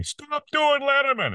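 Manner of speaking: high, slow, scolding yell down the phone; annoyed caller yelling. Retold or imitated. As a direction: bark it like an angry late-night caller. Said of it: "somebody called me".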